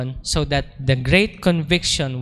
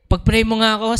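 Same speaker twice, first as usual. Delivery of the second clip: high, laughing-teary imitation of the brother; pleading brother; 6 semitones higher, 4 dB louder than usual. Crying brother asks for prayer. (nagmamakaawang kuya, tumatawa at umiiyak)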